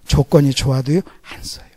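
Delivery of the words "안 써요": soft unvoiced whisper. Preacher whispering God's verdict to the congregation. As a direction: lean in and whisper it.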